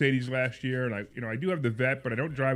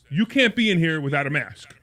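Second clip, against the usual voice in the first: louder, firm mock-manager voice; stern order; 3 semitones higher, 6 dB louder than usual. Manager confronts the maskless car buyer, retold stern order. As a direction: lay down the rule loudly, imitating a manager.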